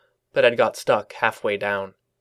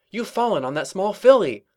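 Shining Armor voice; 9 semitones higher than usual. A narrator's reading.

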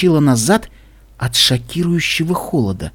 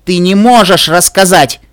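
high, loud, slow warning; insistent; 5 semitones higher, 6 dB louder, slower than usual. A narrator's reading. Pinkie silences Little Pip, insistent. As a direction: forbid it emphatically. Pinkie forbids telling the secret.

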